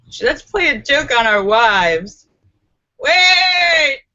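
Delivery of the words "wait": high loud "Wait!"; sudden stop. Real, not acted. Streamer catching her own overshare, sharp loud stop. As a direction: stop yourself abruptly.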